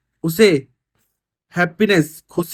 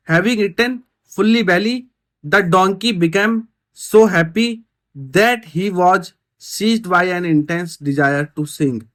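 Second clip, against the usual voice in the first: reads each English word slowly for the class; slow, deliberate reading for students; slow reading aloud; much slower than usual. Shown as a demonstration. Teacher reading the story line slowly to pupils.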